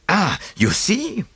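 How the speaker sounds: triumphant. Acted. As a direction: savour the little victory. Poirot triumphant, higher and slow.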